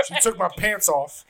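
slow, mock-dramatic retelling; imitating a suspense-milking storyteller; dramatic pauses. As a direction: parcel it out slowly for drama. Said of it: "took, like, dramatic pauses".

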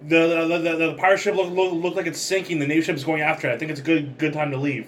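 mild call out. Acted. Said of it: "And then I yelled out".

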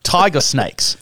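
hammed-up Aussie accent; bad Australian accent. Podcast host lists Tasmania's dangerous snakes, in a bad Australian accent. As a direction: put on a clumsy Australian twang. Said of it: "my bad, uh, Australian accent".

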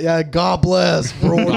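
slow, drawn-out mock cheer; all-caps meme voice. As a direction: imitate an AI talking in meme-speak. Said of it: "A I started talking like that".

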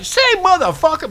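high, hammed-up Black accent. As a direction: throw on a mock Black accent. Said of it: "I can do the black".

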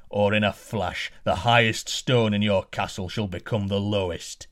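giant's threat. Acted. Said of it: "roared the giant".

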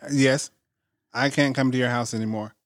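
lightly imitated Spanish accent, softening at the end. Maintenance guy cancelling his visit, in a light Spanish accent. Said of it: "very Spanish accent".

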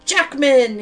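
slow, loud, badly faked Australian accent. A narrator's reading. Bale denying who he is, bad Australian accent. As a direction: stretch the vowels into fake Australian. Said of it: "doing a bad Australian accent".

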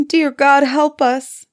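put-on high, loud plea of a frightened girl; a terrified little sister praying aloud; desperate cry. A narrator's reading. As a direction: cry out to God in fear. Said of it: "she cried".

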